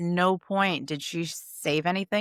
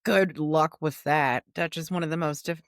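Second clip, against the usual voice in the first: talking through hiccups; hiccuping between words. Real, not acted. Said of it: "oh my God, I have the hiccups".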